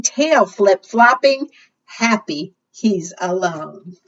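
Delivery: lively, sing-song read-aloud; reading to children. Acted. Librarian reading a picture book to children, sing-song. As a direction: read it to a circle of small kids.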